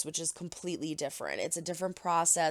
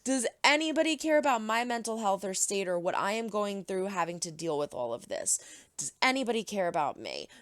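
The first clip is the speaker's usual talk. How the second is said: mocking whiny teen; 2 semitones higher, faster than usual. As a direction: whine it like an ignored teenager. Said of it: "Gia's just like".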